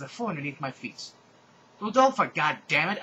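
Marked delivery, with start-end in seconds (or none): 1.8-3.0 loud, high furious yell at Rudolpha; angry yell. Acted. Heroine angrily yelling at Rudolpha. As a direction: shout her name in fury. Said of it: "I yelled angrily".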